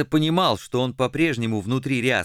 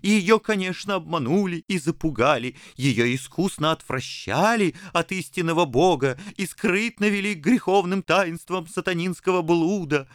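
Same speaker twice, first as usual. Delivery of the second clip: lightly voiced scheming abbot; a hint of an oily priest; 9 semitones higher than usual. Abbot's voice, high.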